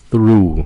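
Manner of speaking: barely touch the T in through; through with a light T. Shown as a demonstration. Teacher drills through for students. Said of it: "âm T nhẹ".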